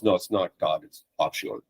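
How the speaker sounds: Bob Schuller. Retold or imitated. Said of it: "and then he goes".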